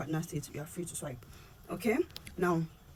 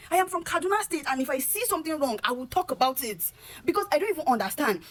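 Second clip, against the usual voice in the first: higher-pitched, worked-up protest; raised voice, losing calm; 6 semitones higher than usual. Real, not acted. Woman from Kaduna defending her right to speak out, worked up. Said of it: "no intentions of raising my voice".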